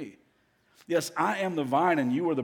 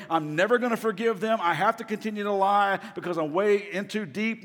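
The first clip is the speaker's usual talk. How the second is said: defiant retort; 4 semitones higher than usual. Retold or imitated. Voicing a defiant person's reply.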